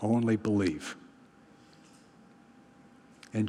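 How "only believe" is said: soft, low, measured comfort; steady them gently, with a pause; quiet reassurance. Retold or imitated. Jesus to the grieving father, quiet reassurance. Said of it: "Jesus turns to him and says".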